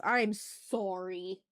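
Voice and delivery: drawn-out, slow Canadian-style apology; Canadian-sounding sorry. Real, not acted. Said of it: "that sounded so Canadian".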